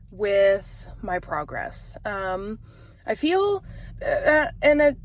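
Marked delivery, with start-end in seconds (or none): 3.0-5.0 fighting back tears as she speaks; a real catch of crying in her throat; voice breaking. Real, not acted. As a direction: voice cracks high into real tears. Admits frustration with her progress.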